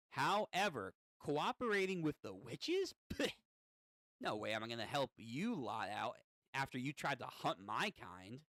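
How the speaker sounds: lightly voiced contemptuous imp; scoff, then refuse with a touch of gremlin; gremlin demon, scornful. Demon refusing to help the witches, mild gremlin scorn.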